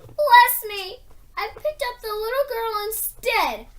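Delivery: high loud startled exclamation; a giant's sudden surprise; high, loud and taken aback. A narrator's reading.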